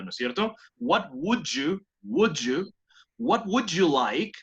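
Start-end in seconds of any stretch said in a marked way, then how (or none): 0.8-2.7 slow "would you" with a j sound linking the words; blended WOULD YOU. Shown as a demonstration. Teacher drilling the sound in the middle, blended "would you". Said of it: "Hay un sonido y por ahí al medio". 3.2-4.3 slow model phrase, "would you" linked with a j; blended WOULD YOU. Shown as a demonstration. Teacher modelling the phrase before students record, blended "would you". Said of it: "se hace como un would you".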